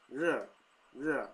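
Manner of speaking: "re" diucapkan seperti "le"; Taiwanese "re". Shown as a demonstration. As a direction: say re, re with a Taiwanese tongue. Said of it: "which is, like, hot".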